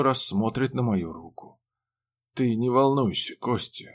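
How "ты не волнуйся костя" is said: put-on calm the boy gently; soothing a child. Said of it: "успокаиваю я сына".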